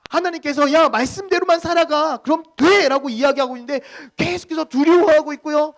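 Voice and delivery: loud, high, impassioned preaching; preaching at full force. Real, not acted. Pastor asking why believers still fear, full-force impassioned preaching. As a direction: cry out the challenge to the congregation.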